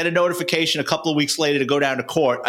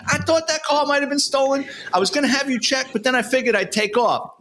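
higher, sheepish lying voice; mock-innocent higher voice; Tiny's excuse; 10 semitones higher than usual. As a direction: fake innocence, like it's obvious. Tiny's excuse after being handcuffed.

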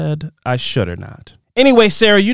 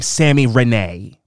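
"Sammy Renee" stretched out slowly; slow right down on "Sammy Renee"; emphasis on the name; 3 semitones lower, slower than usual. Real, not acted. Host remarking on a reviewer's name, "Sammy Renee" slowly emphasized. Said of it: "putting so much emphasis, emphasis on your name".

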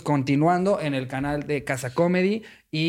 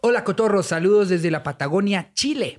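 bad Chilean accent. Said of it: "Pinche acento horrible que hacemos".

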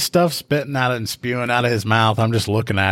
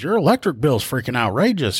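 higher-pitched retold outrage; incredulous; 5 semitones higher than usual. Rookie telling caller her bill is outrageous, imitated incredulity. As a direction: imitate mild disbelief on the caller's behalf.

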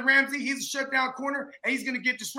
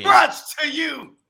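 shout; 6 dB louder, slower than usual. Real, not acted. Shouted praise to host.

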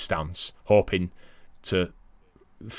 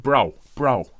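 put-on loose New York accent on "Bro, bro"; 3 semitones higher than usual. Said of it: "with your New York accent".

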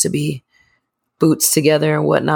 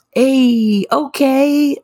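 party hype voice; 10 semitones higher, much slower than usual. Retold or imitated. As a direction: yell it like the life of the party. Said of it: "kind of person at a party".

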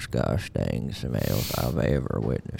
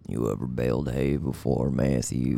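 cowboy voice. Acted. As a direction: play an old ranch hand, easy and dry. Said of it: "my cowboy voice is on point".

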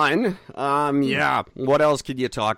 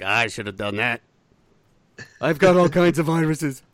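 Trump voice. Retold or imitated. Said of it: "that's my Trump voice".

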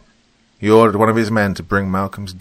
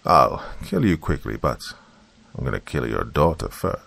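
businesslike calm; 4 semitones lower than usual. Acted. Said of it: "like a man discussing the terms of a business contract".

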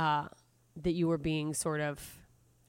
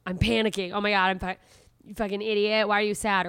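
louder, hammed-up inner panic; mock panicked self-talk; 2 semitones higher, 5 dB louder than usual. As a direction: scold yourself in a fake frantic rush. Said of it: "without going, or whatever".

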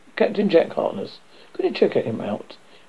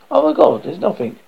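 loud, high horrified cry; horrified gasp; 6 semitones higher, 4 dB louder than usual. Acted. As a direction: terror at the void. Dead man sees nothing beyond.

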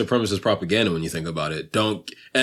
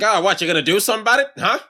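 higher, mock-taunting vintage voice; hammed-up old-movie tough guy; old-time bully; 7 semitones higher than usual. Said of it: "if you talk like that".

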